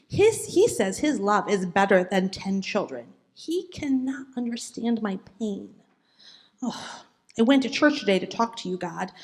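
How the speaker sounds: a hint of a heartbroken woman writing to God; lightly voiced Hannah. Teacher voicing Hannah's diary entry for the children, mildly sad. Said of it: "I think it might sound something like this".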